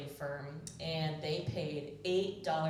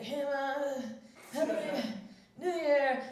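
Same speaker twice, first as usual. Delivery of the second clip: high, louder, laughing through it; fake cheerful drunk greeting; 8 semitones higher, 4 dB louder, slower than usual. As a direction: force a cheery hello to mom while laughing. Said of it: "I was like".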